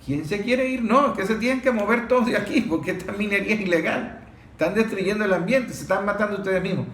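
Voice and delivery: a hint of a commanding soldier's voice; imitating a soldier. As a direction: call out like an army officer clearing an illegal mine. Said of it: "un militar que le está diciendo a, a ellos".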